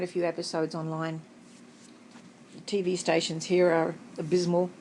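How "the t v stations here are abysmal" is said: talking with food in mouth; mouth full. Real, not acted. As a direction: speak through a bite. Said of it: "speaking with my mouth partly full".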